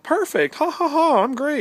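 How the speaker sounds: very high, loud mock voice with fake laugh; squeaky mock self-satisfied laugh; smug pipe maker. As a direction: ham up a gloating, cackling guy. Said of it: "And he's all like".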